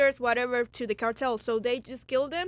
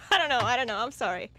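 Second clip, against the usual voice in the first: ordinary talk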